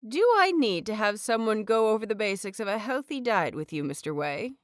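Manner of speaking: lightly voiced healer, crisp and businesslike; a hint of a no-nonsense doctor scolding; brisk professional healer. Head healer briskly lecturing Mister Wei, businesslike. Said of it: "the brisk professional tone".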